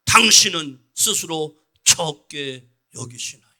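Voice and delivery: rising into a loud impassioned plea; forceful preaching. Real, not acted. Pastor urging the congregation not to despise themselves, loud.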